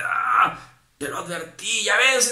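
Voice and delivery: high, loud I-warned-you; mock impatient rebuke. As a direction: snap at the sinner, exasperated.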